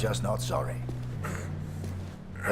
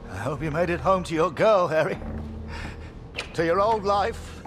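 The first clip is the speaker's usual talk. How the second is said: rising, higher-pitched good wish; heartfelt farewell; 6 semitones higher than usual. Acted. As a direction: wish an absent comrade well. Wishes absent comrade well.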